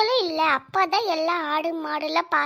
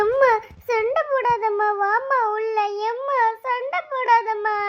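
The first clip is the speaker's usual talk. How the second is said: tearful pleading; 2 semitones higher than usual. Acted. Child begging mother not to fight, tearful. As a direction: plead with mother through put-on tears. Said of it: "நீ எதுக்குடி இப்ப அழுதுகிட்டு இருக்க".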